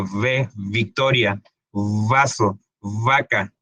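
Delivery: "victoria, vaso, vaca" with a held, buzzing v; labiodental V. Shown as a demonstration. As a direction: lean on the v in "vaso, vaca", teeth on lip. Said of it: "Labio dental".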